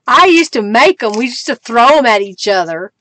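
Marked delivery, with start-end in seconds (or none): 0.1-1.1 chuckling as she repeats it; amused laughing echo. Real, not acted. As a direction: say it again through a laugh. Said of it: "repeats it laughing".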